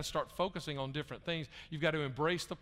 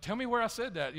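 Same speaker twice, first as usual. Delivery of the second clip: higher, eager "tell me where"; puzzled plea; 8 semitones higher, 4 dB louder than usual. Retold or imitated. Pastor to an offended member, a puzzled high plea. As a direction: ask earnestly, wanting to fix it. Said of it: "and so I said".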